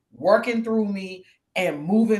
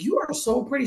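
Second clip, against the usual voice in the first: higher-pitched, gushing praise; admiring compliment; 7 semitones higher than usual. Retold or imitated. Lady in the store complimenting her, gushing. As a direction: imitate an admiring stranger. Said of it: "she's like".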